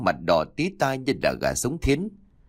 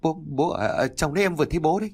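high, fast, stammering fright; panicked cry; 6 semitones higher, faster than usual. A narrator's reading. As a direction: blurt it out terrified. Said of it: "mà kêu".

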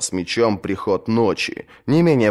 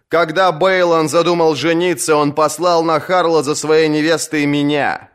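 raised, proud speech to the assembly; boastful lord-captain; 7 semitones higher, 3 dB louder than usual. Acted. Lord-captain boasts to the kingsmoot, proud raised voice. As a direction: boast of loyal service to his brother.

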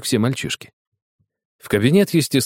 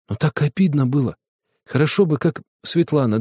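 usual speaking voice

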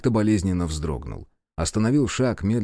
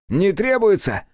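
high, louder demon voice, scornful; a raised, mocking demon query; demon asking; 11 semitones higher, 5 dB louder than usual. A narrator's reading. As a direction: spit the question back in disbelief. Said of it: "спросил он".

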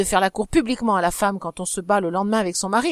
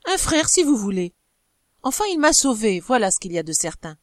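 raised, animated insistence; growing animated. Acted. Wife defending her friend to her husband, animated insistence. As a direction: press the point with fire. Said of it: "reprit-elle en s'animant".

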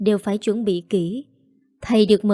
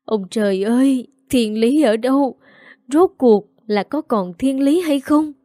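despairing wail to heaven; 3 semitones higher, 4 dB louder than usual. Acted. Mother cries out to heaven in despair. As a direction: howl it at the sky. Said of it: "Bà Tâm gào lớn".

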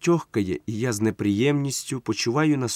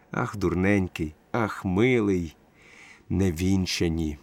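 tender; 5 semitones lower, 4 dB quieter, slower than usual. Acted. Tender reply to drunk friend.

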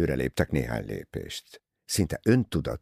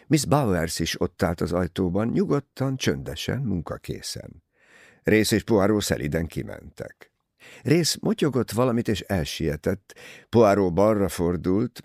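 usual speaking voice

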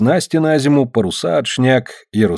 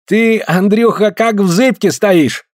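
high, drawn-out teasing; amused jeer; 9 semitones higher, slower than usual. A narrator's reading. Smolkov mocks Andrei's wobbly stance, amused jeer. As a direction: tease him in a high, slow voice. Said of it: "Смольков смеётся".

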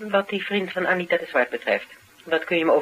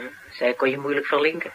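laughing; 3 dB quieter than usual. Real, not acted. Amused remark while laughing.

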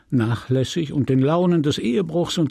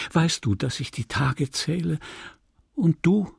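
lightly voiced, higher, rapt lover; dreamy Emma; 4 semitones higher than usual. Emma leans on Rodolphe's shoulder dreaming of escape, rapt and rising. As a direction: let the fantasy lift her voice.

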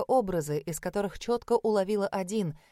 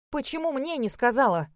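a bit higher, sharp exclaim; 5 semitones higher than usual. Acted. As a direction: blurt it out cutting her off. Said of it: "воскликнула я".

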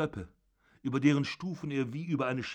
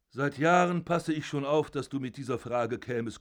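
put-on loud, raised furious old father berating his son; zorniger alter Vater; 3 semitones higher, 4 dB louder than usual. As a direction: bellow down at your son from the bed. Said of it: "father accuses Georg". (wütender Vater, laut und erhoben)

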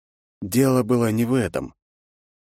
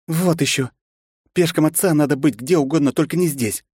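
sharp, higher snapping retort; 8 semitones higher than usual. Acted. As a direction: snap it back at her. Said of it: "огрызнулась девушка".

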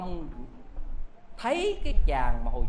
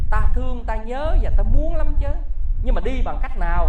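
higher, louder eager answer; eager longing; 6 semitones higher, 11 dB louder than usual. Acted. Old man eagerly answers the spirit guide, higher and louder. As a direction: burst out with yearning.

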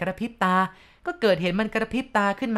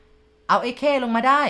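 loud, higher, slow call across the set; director calling out; 6 semitones higher, 6 dB louder, slower than usual. A narrator's reading. Director calls to the crew, loud and slow. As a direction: shout the order to bring it down. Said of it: "ได้ยินเสียงรังสรรค์ร้องว่า".

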